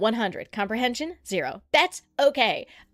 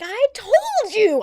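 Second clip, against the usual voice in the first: slow, stressed "I told you" with "told" punched; slow pointed retort; 11 semitones higher, 7 dB louder, much slower than usual. Retold or imitated. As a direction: lean hard on "told", slowly. Retorting to the caller.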